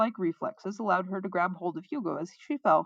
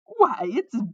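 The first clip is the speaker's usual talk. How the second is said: flamboyant minstrel hailing a hero, loud and slow; crying out; 7 semitones higher, 10 dB louder, much slower than usual. A narrator's reading. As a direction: proclaim it high and grandly drawn out. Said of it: "the newcomer cried".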